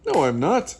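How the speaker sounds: loud, high-swooping protest; boisterous storybook yell; shouting. A narrator's reading. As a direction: shout back in denial. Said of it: "Bean shouts".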